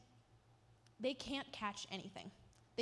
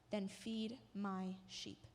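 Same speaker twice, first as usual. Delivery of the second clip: slow, soft, lower reassurance; gentle command; 3 semitones lower, 3 dB quieter, much slower than usual. Acted. Jesus gently commissioning Peter, slow and soft. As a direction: let it land slowly and tenderly.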